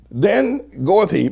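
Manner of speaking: slow, emphatic scripture reading; scripture preaching. Real, not acted. Pastor reading the verse to church, scripture preaching. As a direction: declaim the verse slowly.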